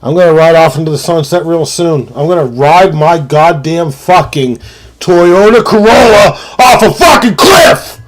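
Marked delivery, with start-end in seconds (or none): 2.1-8.0 fired-up rant. Real, not acted. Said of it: "I get real fired up".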